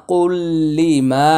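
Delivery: "কুল্লি মা" chanted slowly in melodic tilawat voice; recited. Shown as a demonstration. Teacher showing the merged lam, "কুল্লি মা" in melodic chant. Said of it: "তানউইনের পরে লাম ইদগামি বিলা গুন্না".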